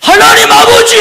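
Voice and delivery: put-on high, loud cry of a child to his father; calling out to Father. A believer crying out to God, loud and high. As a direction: call out to God like a longing child.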